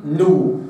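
نو moved cleanly with a rounded damma; correct nu. Shown as a demonstration. Teacher modelling the noon with damma. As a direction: say نو with lips rounded, short and clean. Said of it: "وإنما".

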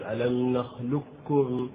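"نخلقكم" slowly with a pure doubled kaf; full assimilation. Shown as a demonstration. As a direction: recite so only kaf is heard. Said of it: "فإنك تنطق بكاف خالصة".

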